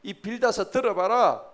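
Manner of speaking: loud, high, commanding proclamation; booming acted divine voice; God speaking directly. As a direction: declare yourself with full authority and demand to be heard. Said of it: "하나님이 직접 나서서".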